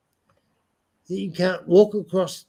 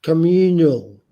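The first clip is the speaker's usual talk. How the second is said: louder insistence; 7 dB louder than usual. Real, not acted. Repeating the word, exasperated.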